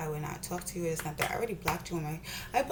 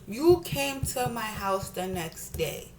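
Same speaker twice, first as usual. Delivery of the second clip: slow, deliberate accusation; slow, pointed repeat; slower than usual. Real, not acted. Confronting a friend who stayed silent, slow and pointed. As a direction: spell it out slowly, word by word.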